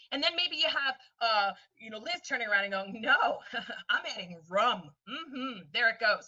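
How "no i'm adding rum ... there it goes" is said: laughing Texan Liz. Retold or imitated. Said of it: "'cause that's what Texas does".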